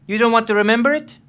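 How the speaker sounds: high, fast mocking question; mocking challenge. Lieutenant mocking the prisoner's answer, high and fast. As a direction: needle him with disbelief.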